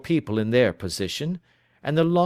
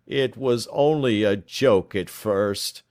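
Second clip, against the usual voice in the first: slow, heavy, groaning plea; defeated confession; groaned; 3 dB louder, slower than usual. Acted. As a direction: drag the words out of a beaten man. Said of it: "groaned our visitor".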